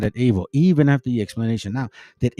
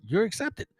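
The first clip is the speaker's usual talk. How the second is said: higher, casual street-talk God; lightly voiced, raised pitch, laid-back advice; a hint of a friendly mentor, pitched up; God's advice; 5 semitones higher than usual. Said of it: "No, he said it".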